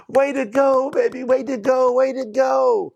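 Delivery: gentle, encouraging "way to go"; encouraging praise. Shown as a demonstration. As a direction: cheer the child on sincerely. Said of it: "You see that inflection".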